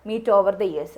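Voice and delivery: very slow, word by word; model answer, slowly. Shown as a demonstration. Teacher models the exam answer for learners, slow and deliberate. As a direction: spell out the sample sentence for students. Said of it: "അതാണ് നമ്മൾ heading പറയേണ്ടത്".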